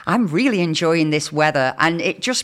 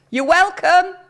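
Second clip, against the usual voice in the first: pitched high, loud sarcastic "You're welcome"; 12 semitones higher, 3 dB louder than usual. Retold or imitated. Host acting out the door rule, loud sarcastic thanks. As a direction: call it after them, dripping sarcasm. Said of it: "you've got to say very loud".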